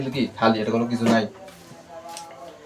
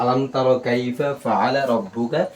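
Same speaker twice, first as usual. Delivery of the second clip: slow, measured recitation with long vowels; Quran recitation; much slower than usual. Shown as a demonstration. Teacher models the verse for students, slow recitation. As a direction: recite slowly, drawing out the long syllables.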